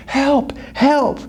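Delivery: high, panicked calls for help; yelling for help. Acted. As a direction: cry out from the cliff edge. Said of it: "he just yells".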